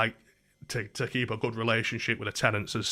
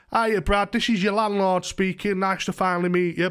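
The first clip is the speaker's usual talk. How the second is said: posh London voice; 6 semitones higher than usual. Retold or imitated. Landlord introducing himself by phone, put-on posh London. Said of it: "This very posh London voice".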